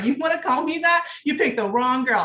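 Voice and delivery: high, loud angry comeback; retold telling-off. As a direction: snap back hard at the guy who insulted her. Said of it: "I went off on this person".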